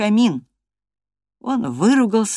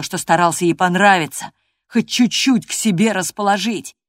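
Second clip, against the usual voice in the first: Hareton's voice; 2 semitones higher, 5 dB louder than usual. Acted. Hareton's bitter complaint.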